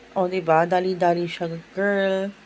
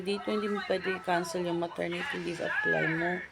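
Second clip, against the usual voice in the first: ordinary talk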